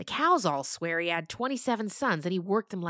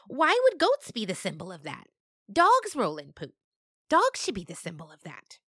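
louder indignant goat; arguing goat; 5 dB louder than usual. Acted. Dandy arguing about dogs, louder. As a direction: argue the point, indignant.

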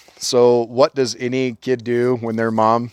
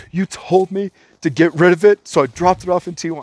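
high, louder mock whine; hammed-up whiny excuse, pitched way up; whiny wimp; 8 semitones higher, 4 dB louder than usual. Car thief defending himself to angry teen, mocking whiny wimp. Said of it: "he was a little bitch".

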